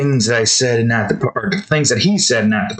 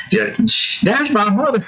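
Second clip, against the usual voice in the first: put-on higher girlish voice; daughter's voice; 9 semitones higher than usual. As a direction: say it plainly.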